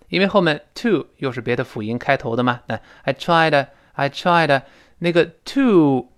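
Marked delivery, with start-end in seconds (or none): 3.0-4.6 I TRIED run into a weak "tuh", no d burst; TRIED TO linked. Shown as a demonstration. Teacher shows linking, TRIED with unreleased d and weak "to". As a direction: swallow the d of TRIED into a light "tuh". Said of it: "那个的失去爆破了".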